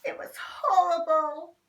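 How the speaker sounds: loud, high revulsion; Henry reacting loudly to bad food; disgusted. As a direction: spit the words out. After tasting beans.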